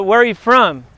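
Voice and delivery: a hint of a gang member sizing someone up; lightly voiced street challenge. Asking a surfer, lightly imitating a gang's challenge. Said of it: "Like the gang say".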